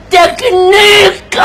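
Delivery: drawn-out laughing tekneek. Acted. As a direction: laugh through the word. Mocking the word technique.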